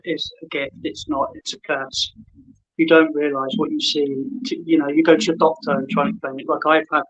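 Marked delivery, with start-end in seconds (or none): 0.0-2.1 whispering. Real, not acted. Confiding his gift is a curse.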